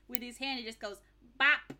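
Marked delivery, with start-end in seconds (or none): 1.4-1.7 mouth-made gunshot pop; louder mock shot noise; imitated gunshot. Actor faking a gunshot by hand, mock pop. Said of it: "he literally just goes, with his hand".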